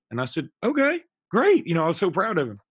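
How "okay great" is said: high, loud, drawn-out delight; excited encouragement. Retold or imitated. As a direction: cheer him on like a proud dad. Dad thrilled his son speaks up.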